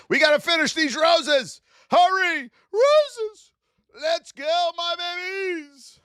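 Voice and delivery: high, loud, eager calling out; rally the little roses like a coach; urging the roses on. Acted.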